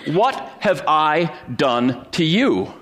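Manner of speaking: high, slow, pleading donkey voice; a bewildered donkey asking why it is beaten; talking donkey voice. Retold or imitated. Preacher voicing the donkey to his congregation, high and slow. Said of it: "and the donkey says".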